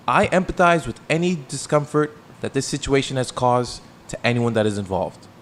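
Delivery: mock dramatic reading. Shown as a demonstration. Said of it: "you have to make it dramatic".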